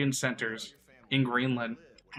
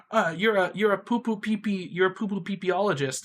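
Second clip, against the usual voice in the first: tag; 5 semitones higher than usual. Acted. Mocking intellectual political name-calling.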